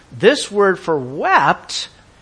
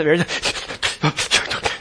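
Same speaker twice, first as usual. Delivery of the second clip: imitated gasping sobs; breathless crying. Shown as a demonstration. Preacher shows a cry that loses composure, mock gasping sobs. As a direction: sputter as if crying too hard to breathe. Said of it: "you can't even get your breath".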